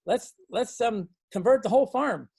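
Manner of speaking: a hint of youthful excitement; eager pitch. Son pitching idea to dad.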